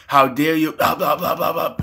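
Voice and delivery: imitated fit of indignation; mock outraged fit. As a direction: splutter indignantly into a run of blahs. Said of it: "she proceeds to have a seizure".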